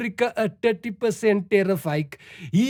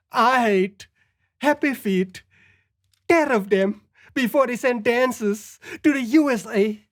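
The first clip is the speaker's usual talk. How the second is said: Trump impression. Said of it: "my best Trump impression".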